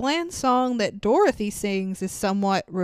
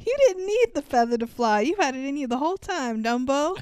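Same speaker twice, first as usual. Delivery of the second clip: laughing mock; 4 semitones higher, faster than usual. Mock inspirational line while laughing.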